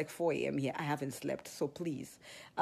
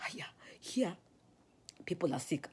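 hushed aside; 4 dB quieter than usual. Retold or imitated. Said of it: "I pulled them aside and I said".

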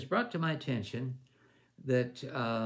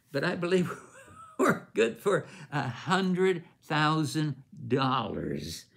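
laughing pledge; 3 semitones higher, 4 dB louder, slower than usual. Retold or imitated. Board member's wife pledging in her note, slow laughing delight. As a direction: let a laugh break into the pledge.

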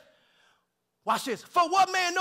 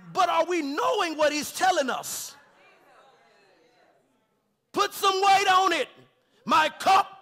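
loud, stretched, climbing preacher's cry; preaching at full force; 3 semitones higher, 4 dB louder, slower than usual. Acted. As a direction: drive it home like a revival preacher.

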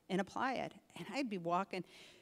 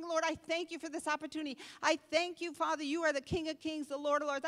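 praising; 9 semitones higher than usual. Retold or imitated. Retold praise prayer.

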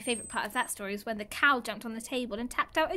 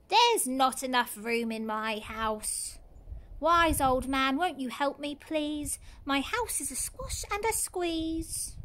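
lightly voiced fretful old lady; slower than usual. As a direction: plead like a worried little old lady.

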